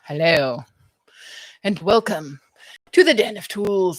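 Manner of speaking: talking while chewing gum. Real, not acted. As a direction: gum in the mouth as she speaks. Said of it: "I have gum in my mouth".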